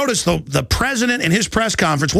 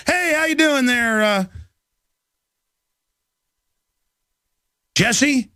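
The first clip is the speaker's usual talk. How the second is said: friendly neighbor greeting; 5 semitones higher, slower than usual. Retold or imitated. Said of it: "nice, calm voices".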